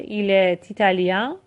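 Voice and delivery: 'Il est italien' with the t of est carried onto italien; slow model, linking est and italien by a t; with liaison. Shown as a demonstration. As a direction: run est into italien as 'e-ti-ta-lien'.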